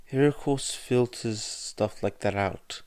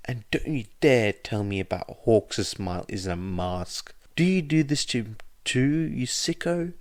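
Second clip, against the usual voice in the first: furious rant; 8 semitones higher than usual. A narrator's reading. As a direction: tear into him, outraged. Midoriya's furious rant at Suzuki.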